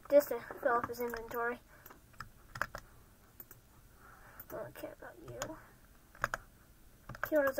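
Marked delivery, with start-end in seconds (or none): 0.1-5.6 hushed, fast muttered aside; whisper. Real, not acted. Trading with the merchant, a hushed whisper. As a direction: whisper it under your breath, quick.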